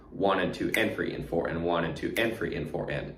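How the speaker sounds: quick even count, "and" after "two" accented; rhythmic count with a push on "and" after "two"; stress on the AND after two. Shown as a demonstration. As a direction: lean on the "and" following each "two". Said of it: "pay attention to how I'm counting it".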